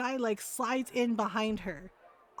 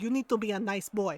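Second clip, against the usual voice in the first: retold scolding mom; 2 semitones lower than usual. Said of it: "She's like".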